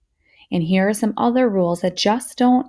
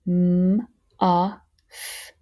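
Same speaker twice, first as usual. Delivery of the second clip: whispered. Shown as a demonstration. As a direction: whisper "M-a-f" without voice. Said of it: "Fingers up".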